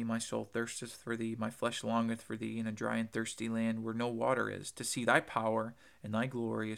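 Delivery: measured reverent reading of the psalm, slowing at the end; scripture reading. Acted. Preacher reading Psalm sixty-three aloud, reverent scripture reading. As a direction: read it like holy text.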